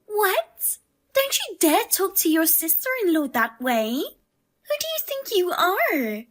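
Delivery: outraged sister-in-law telling her off; indignant scolding. Acted. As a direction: put her firmly in her place.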